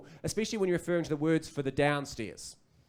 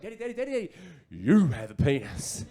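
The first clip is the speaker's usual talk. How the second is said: put-on excited little boy; 4 dB louder than usual. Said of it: "he picked up on my excitement".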